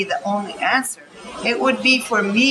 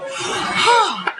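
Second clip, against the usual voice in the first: laughing sigh; 8 semitones higher than usual. Retold or imitated. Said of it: "take a deep breath in and go".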